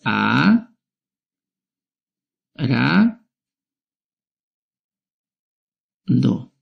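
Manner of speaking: "A, ra, do" with long pauses between each syllable; split into syllables. Shown as a demonstration. Teacher showing children how to split arado, slowly. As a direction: break "arado" into three slow beats for the class. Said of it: "Lo voy a separar en sílabas".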